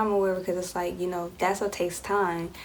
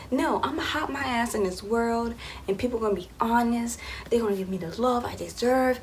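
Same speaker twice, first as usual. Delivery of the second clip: naive younger self; 4 semitones higher than usual. Retold or imitated. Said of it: "I was just like".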